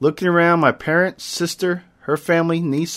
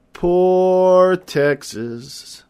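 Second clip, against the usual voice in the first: gloating; 4 semitones higher, much slower than usual. Acted. Gloating over rival's loss.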